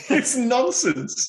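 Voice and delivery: high, drawn-out, laughing disbelief; amused disbelief. Real, not acted. Cohost scoffing at the film accent, amused disbelief. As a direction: say it slowly and high through a laugh.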